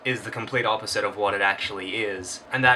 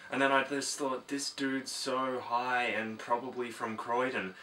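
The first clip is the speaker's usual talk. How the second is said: softer, rambling chatterer who won't stop talking; one-sided rambler; 4 dB quieter than usual. Acted. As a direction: drone on quietly like a clueless oversharer. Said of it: "they tend to look a lot like this".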